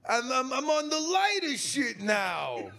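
character voice. Acted. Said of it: "your character's voice say".

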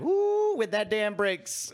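high "ooh", then drawn out; hammed-up warning of trouble ahead; mock foreboding. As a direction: ooh and tut at looming trouble. Voices a worried onlooker.

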